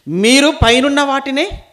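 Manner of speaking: high, loud, drawn-out verse; emphatic proclamation. Acted. Preacher repeating Paul's verse to the congregation, loud and emphatic. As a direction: proclaim it slowly at full preaching voice.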